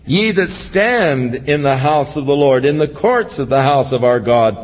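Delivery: measured, proclaiming psalm reading; scripture reading. Acted. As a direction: read the psalm as a call to praise. Reads psalm aloud.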